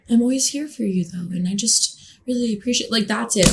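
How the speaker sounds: lightly voiced vapid LA type, brushing it off; airy, half-hearted sympathy with a hint of fake sweetness; mock LA friend. Mimicking an LA friend dodging a friend in crisis, mock airy. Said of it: "those L A fucking people are just like".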